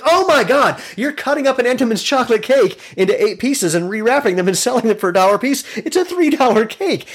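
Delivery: mock outraged disbelief. Customer discovers the deli's cake scam, mock outrage. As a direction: squeal the astonished discovery, hammed-up.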